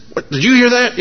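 high, startled question to a friend; surprised whisper-shout. Retold or imitated. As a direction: catch the news in a flash. Blind man nudging friend.

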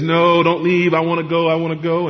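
lightly voiced child, sustained whine on one level; imitating clinging child. Child begging a parent not to leave, lightly acted pleading. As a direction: plead like a child who won't let go. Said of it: "the child grabs the leg and says".

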